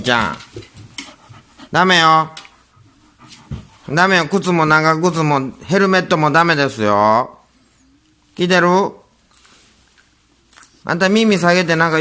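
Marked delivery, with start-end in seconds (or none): 1.7-12.0 firm scolding. Real, not acted. Owner scolding dog Rin.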